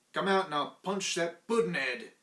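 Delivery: loud, high shouted threat; retold challenge. Thomas shouting at the watchman to come out and fight. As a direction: yell it like a brawler picking a fight. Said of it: "I says".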